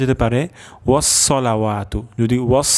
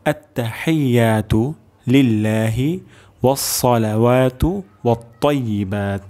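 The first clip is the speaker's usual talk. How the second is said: careful recitation. Shown as a demonstration. Teacher repeats the phrase for students, careful. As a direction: recite it again, deliberately. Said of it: "আরেকবার উচ্চারণ করে দিচ্ছি".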